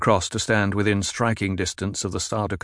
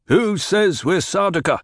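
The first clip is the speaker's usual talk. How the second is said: a hint of a defiant soldier, raised voice; defiant demand; 9 semitones higher, 3 dB louder than usual. A narrator's reading. Cornered Sardaukar challenging Paul, lightly voiced defiance. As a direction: challenge him, proud and cornered. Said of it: "he demanded".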